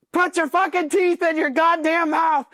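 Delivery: very high, slow strained yell; drawn-out mock drill-instructor bellow. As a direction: imitate an instructor screaming an order, word by word. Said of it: "And he's yelling at him".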